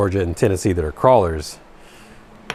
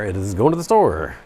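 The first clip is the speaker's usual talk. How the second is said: Southern "going to the store", T swallowed; Georgia accent, dropped T's. Shown as a demonstration. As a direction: run "going to" together the Georgia way. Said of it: "People don't say T's in Georgia".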